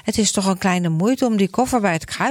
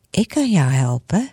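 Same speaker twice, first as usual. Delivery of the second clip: God's voice. Acted. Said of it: "zegt Gods stem".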